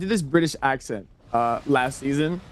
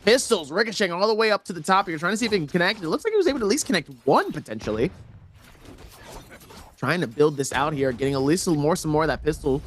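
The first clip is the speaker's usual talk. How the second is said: flowing esports replay commentary; live play-by-play. Real, not acted. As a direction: narrate each move, popping on the best hits.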